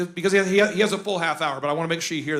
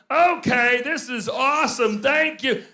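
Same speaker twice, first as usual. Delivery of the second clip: mock excited audience; 4 semitones higher, 4 dB louder, slower than usual. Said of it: "all of us are going".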